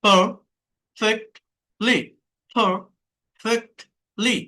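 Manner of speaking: পারফেক্টলি slowly, in three separate beats; split into syllables. Shown as a demonstration. Teacher showing three syllables, পারফেক্টলি split slowly. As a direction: break পারফেক্টলি apart with pauses. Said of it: "তিনটা".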